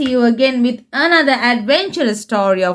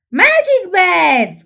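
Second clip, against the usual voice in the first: gasp; 5 semitones higher, 3 dB louder, slower than usual. Acted. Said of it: "gasps Peppa".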